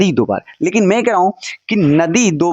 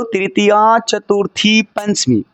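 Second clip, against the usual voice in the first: slow drill; 3 semitones higher, slower than usual. Shown as a demonstration. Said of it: "फिर से बोलो मेरे साथ".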